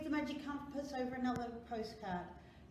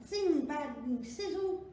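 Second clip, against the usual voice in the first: punchy, louder, higher bursts; magic sound words; 5 semitones higher, 4 dB louder, much slower than usual. A narrator's reading. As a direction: pop out each magic sound.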